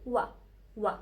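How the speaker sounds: "وا" as one short "wa"; French "oi" as wa. Shown as a demonstration. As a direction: model "وا" as the sound of French "oi". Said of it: "الاو اي نطقتها ايه".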